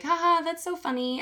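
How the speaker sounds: mock flirty giggle to get away; fake giggle. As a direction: play along with a forced little laugh. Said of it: "laughing and giggling and being like".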